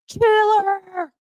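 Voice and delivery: high, loud drawn-out call of her name; mock yell. The speaker yelling at Taylor, a mock exasperated shout.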